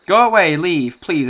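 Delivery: put-on a girl screaming at her parents to leave; desperate scream.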